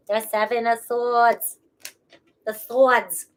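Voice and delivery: slow, Boston-tinged Swords; a touch of a Boston accent, unplanned. Real, not acted. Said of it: "There's my Boston accent".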